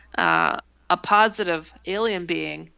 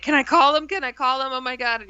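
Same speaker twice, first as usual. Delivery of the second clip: high, urgent retold pleading; worked up; 5 semitones higher than usual. Roommate begs to call the UFO friends, worked up. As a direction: act out agitated begging, pitched up. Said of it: "she was just really worked up".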